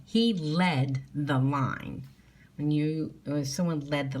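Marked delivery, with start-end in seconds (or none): 0.0-2.1 slow, clear dictation; teacher dictating a spelling sentence. Shown as a demonstration. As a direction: dictate each word slowly. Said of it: "Say your sounds as you write".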